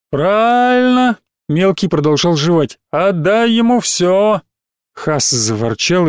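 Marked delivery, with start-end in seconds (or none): 0.1-1.2 childish mock approval. Little boy chimes in. 2.9-4.4 put-on childish taunt. Little boy chimes in.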